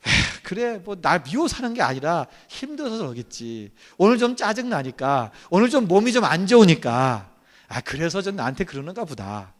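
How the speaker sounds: soft, sighing self-talk, letting it go; 너그러운 이해. Acted. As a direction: sigh and excuse them quietly. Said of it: "이렇게 받아들이라는 거예요". (한숨 섞어 나직이 이해해 주는 혼잣말)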